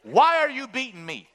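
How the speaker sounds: a beaten animal asking why, aggrieved; talking donkey. Retold or imitated. Donkey protesting to the prophet beating him, aggrieved. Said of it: "the donkey starts talking".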